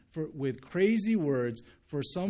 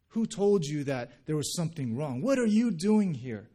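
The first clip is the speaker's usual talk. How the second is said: mock yelling; 2 semitones higher, 5 dB louder than usual. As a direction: demand it like an indignant prophet. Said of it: "he yells out, basically saying".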